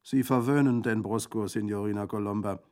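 high, lively bandit voice; hearty bandit. A narrator's reading. Bandit thanking Colomba for his dog, hearty.

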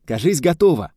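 loud, solemn proclamation; proud announcement. A narrator's reading. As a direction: announce it importantly. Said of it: "солидно провозгласил".

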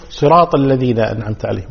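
صراط الذين أنعمت عليهم run together, swallowed vowel after صراط; missing fatha. Shown as a demonstration. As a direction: rush past the end of صراط. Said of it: "البعض أيضًا هنا يقول". (صراط دون إظهار فتحة الطاء)

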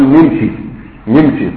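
"نمشي" as nimshi, opening on ni; colloquial pronunciation. Shown as a demonstration. Teacher quoting common people's usage, colloquial nimshi for "نمشي". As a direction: say "نمشي" with a kasra on the nun: nimshi. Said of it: "العامة تقول".

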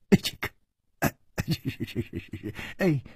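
hushed, stuttering yes-man; smiling appeasement. A narrator's reading. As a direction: stammer agreement, eager to please. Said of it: "他陪着笑说".

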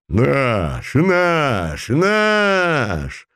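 rising excited squeal; wild shriek. Acted. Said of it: "дико взвизгнул".

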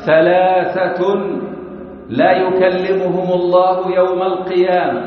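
measured preacher's recitation; solemn hadith recitation. Acted. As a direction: intone the saying with weight, rising toward the close. Recites the Prophet's saying.

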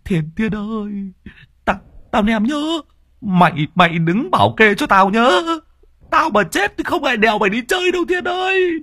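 put-on high, shaky old man's voice rising to a frightened shout; old man begs his nephew to guard him; trembling fear. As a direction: bluster to hide the terror. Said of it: "Tay lão run run".

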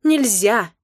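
loud, near-sobbing no; tearful refusal. Acted. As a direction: refuse again with a sniffle. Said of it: "повторила я и всхлипнула".

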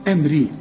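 أمري with a thin r before i; light first ra. Shown as a demonstration. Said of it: "مرققة".

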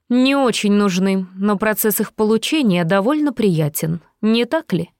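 silky threatening villain; menacing villain. Acted. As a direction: purr the threat with mock affection. Villain voiced by narrator.

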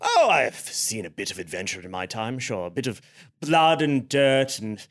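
low, soft gruff soldier voice; a veteran modestly boasting; hushed low officer; soldier gentleman. Acted. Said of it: "he goes".

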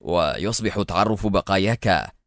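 understated, unbothered taunting; offhand sarcastic menace; mocking nonchalance. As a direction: explain it calmly with a touch of scorn. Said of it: "وهو يقول في استهتار ساخر".

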